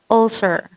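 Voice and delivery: "ulcer" with a short middle vowel in the first syllable; correct pronunciation. Shown as a demonstration. Teacher gives an example of the semi-vowel, careful correct "ulcer". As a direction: say "ulcer" starting on a relaxed mid vowel. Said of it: "You say ulcer".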